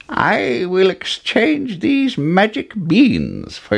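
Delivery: put-on high, slow old man; slow, strange old bargainer. A narrator's reading. Old man voiced in story.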